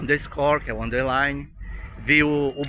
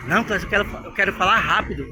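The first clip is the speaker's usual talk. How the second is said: eager student; 5 semitones higher, 5 dB louder than usual. Retold or imitated. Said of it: "Eu dizia".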